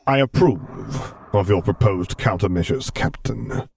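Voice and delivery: cold, measured imperial authority; Darth Vader voice. Acted. Vader voice, narrated story.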